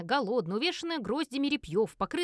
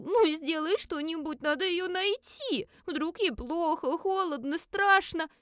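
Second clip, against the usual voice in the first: put-on high, slow pleading child's voice, near tears; a small girl begging her father through tears; tearful little girl; 6 semitones higher, slower than usual. A narrator's reading. (плачущая девочка, высокий медленный голос)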